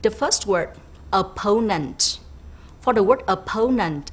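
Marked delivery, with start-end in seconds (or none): 1.2-2.0 opponent with PO stressed; stress on second syllable. Shown as a demonstration. Teacher introducing the first word, opponent stressed on PO. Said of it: "stress is on the second syllable". 3.3-4.0 louder "opponent", PO stressed; stress on second syllable. Shown as a demonstration. Teacher repeating the word for students, opponent stressed on PO. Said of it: "stress is on the second syllable".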